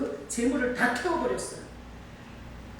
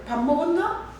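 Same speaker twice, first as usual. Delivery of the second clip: Gangwon dialect. Acted. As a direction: greet them in Gangwon dialect, voice lifting at the end. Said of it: "강원도 말로". (강원도 사투리로 끝을 올려 묻기)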